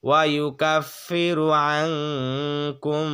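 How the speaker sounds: ওয়া ইউকাফিরু আংকুম chanted slowly with a long nasal ghunna; slow Quran recitation. Shown as a demonstration. Teacher recites the verse slowly for students. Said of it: "গুণার সহিত পড়তে হবে".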